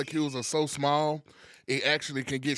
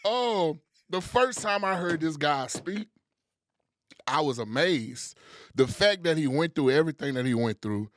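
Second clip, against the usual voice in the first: hype man intro; 3 semitones higher than usual. Acted. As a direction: hype up the guest like a showman. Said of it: "That's a lot of energy".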